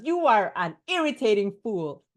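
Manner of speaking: mock bully yell. Shown as a demonstration. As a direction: act the bully yelling an insult. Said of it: "bully yells".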